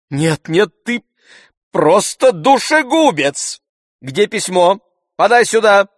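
high, loud exasperated shouting; furious outburst. A narrator's reading. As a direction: explode at the servant and demand it at once. Master berates servant, demands letter.

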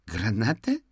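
put-on a touch of alarm in a boy's voice. A narrator's reading. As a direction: ask back as a worried child. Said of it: "встревоженно переспросил мальчик".

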